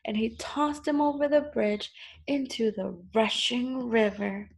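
measured storybook narration; story reading to children. A narrator's reading. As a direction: read it out clearly to small children.

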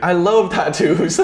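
slow, high imitation of mom's Asian accent; drawn-out Asian accent with a laugh. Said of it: "in her little Asian accent".

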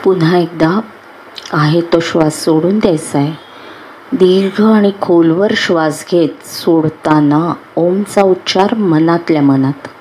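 unhurried meditation guide with long pauses; guided meditation. Acted. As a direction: guide them calmly into relaxation, phrase by phrase.

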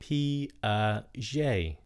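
"Piaget" with a light zh, like "pia-zhay"; soft J. Shown as a demonstration. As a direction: say "Piaget" with a gentle French j. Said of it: "âm J nhẹ thôi".

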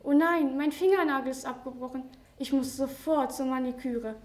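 high, loud squeal at „Oh nein“, easing after; panicked shriek over a broken fingernail; shrill outcry. Acted. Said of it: "Da schrie sie auf einmal". (hoher, lauter Aufschrei wegen des abgebrochenen Fingernagels)

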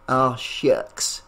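lightly put-on, hokey Southern accent; bad Southern accent. Aunt joking after her friend's praise, mild fake Southern accent. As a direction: lay on a mock Southern twang, lightly. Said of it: "Maggie said in a bad Southern accent".

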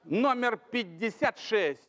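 slow, drawn-out number call; bingo caller. Acted. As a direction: call the number slowly for the hall. Host calls drawn numbers.

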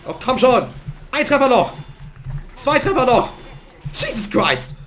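loud, pleading shouts at the game; frustrated shout. Real, not acted. Gamer yelling at the screen, loud and frustrated. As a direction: yell at the enemy, desperate.

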